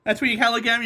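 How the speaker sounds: ordinary talk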